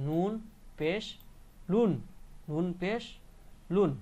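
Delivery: pause, then sound "লুন" with final n; spelled-out tanween. Shown as a demonstration. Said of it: "লাম লাগবে আর নুন".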